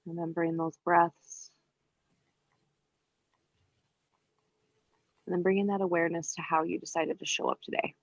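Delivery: calm yoga teacher's cueing with long pauses; unhurried, evenly pitched meditation instruction; guided meditation. Real, not acted. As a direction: guide them gently into breath awareness, leaving space between phrases. Leads breathing awareness in yoga.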